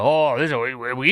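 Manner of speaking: lightly voiced flustered mayor; mock a mayor stammering for words; hint of a hemming, hawing politician; John Whitmire. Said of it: "Houston Mayor John Whitmire said".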